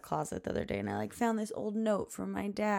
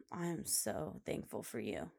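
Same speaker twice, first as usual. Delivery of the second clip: soft, lower whispered gratitude; tender whisper; 7 semitones lower, 6 dB quieter than usual. Retold or imitated. Mother looking at her daughter, whispering tender thanks. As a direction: breathe it out to your child.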